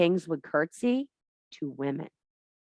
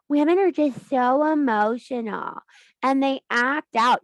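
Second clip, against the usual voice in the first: mocking stereotype; 6 semitones higher, 5 dB louder than usual. Parodying men who call women too emotional, sneering. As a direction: mimic the condescending critic.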